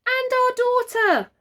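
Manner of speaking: high, loud urgent shout. A narrator's reading. Mother shouts from the car about her daughter. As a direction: shout a reminder at him. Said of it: "shouted Mother".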